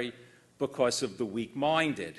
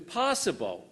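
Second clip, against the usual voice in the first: "possible" lifted higher and set apart; stress on possible; 5 semitones higher than usual. Real, not acted. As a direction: underscore the word "possible". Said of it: "and I underscore possible".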